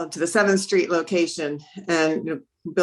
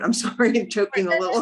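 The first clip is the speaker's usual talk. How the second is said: embarrassed laugh through apology; 3 semitones higher, faster than usual. Real, not acted. Laughing off a coughing fit.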